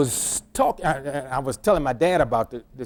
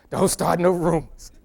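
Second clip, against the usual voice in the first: Don't start no rumors said through a laugh; playful laughing repeat of Don't start no rumors. Real, not acted.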